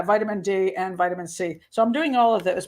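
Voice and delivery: talking with a runny nose; sniffly, nose running while speaking. Real, not acted. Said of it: "oh, my nose is running again".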